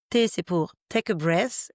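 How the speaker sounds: "take a breath" slowly, in a clumsy French-accented English; bad English accent. Shown as a demonstration. Podcaster spelling out STOP for listeners, in a clumsy English accent. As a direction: say the English words with a self-mocking, poor English accent. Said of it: "mon accent anglais extrêmement, euh, pourri".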